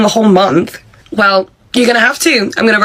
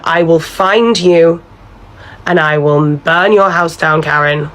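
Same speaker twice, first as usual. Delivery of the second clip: low threat; 3 semitones lower, slower than usual. Acted. Emily threatens boss on phone.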